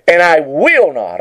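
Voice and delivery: firm stress on WILL in "will not"; emphatic. Retold or imitated. Preacher quoting Jesus to the congregation, emphatic on "will not". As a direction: lean on "will", pitch peaking then falling. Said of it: "Jesus put emphasis on His word".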